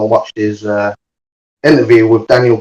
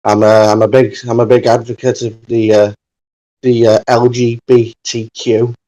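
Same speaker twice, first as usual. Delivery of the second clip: put-on a clumsy, slipping Irish accent that drifts toward Scouse; Finn Balor in terrible Irish. Retelling a wrestler's interview in a botched Irish accent. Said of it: "That was terrible Irish".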